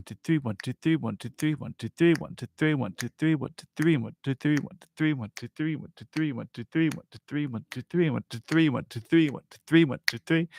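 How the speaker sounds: counted in groups of three, soft; lilting soft count in threes. Shown as a demonstration. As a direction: tap out one-two-three softly. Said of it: "So you get this one".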